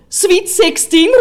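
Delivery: shouting. Retold or imitated. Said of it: "roep ik".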